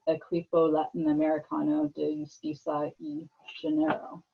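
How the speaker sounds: Spanish names read with an American accent; Anglicized Spanish, English vowels and r. Real, not acted. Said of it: "sorry for my terrible Sp-, uh, Spanish there".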